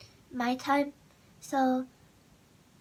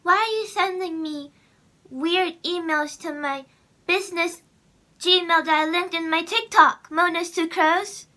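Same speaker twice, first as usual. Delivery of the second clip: louder, higher mock confrontation; indignant demand; 4 semitones higher, 6 dB louder than usual. Vlogger confronting the email's sender, indignant. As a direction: take the sender to task, punching each phrase.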